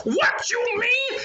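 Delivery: a king exploding in anger; furious king. A narrator's reading. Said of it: "got furious".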